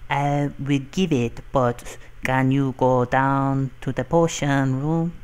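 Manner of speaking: put-on failed French accent drifting into Jamaican; lightly Jamaican-sounding put-on accent; accidental Jamaican accent. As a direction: attempt a foreign accent that slips toward Jamaican. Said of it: "I sound Jamaican there".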